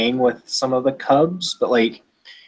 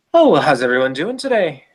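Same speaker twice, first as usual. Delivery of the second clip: put-on Irish accent; 4 semitones higher than usual. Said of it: "she just got a bastardized Irish accent".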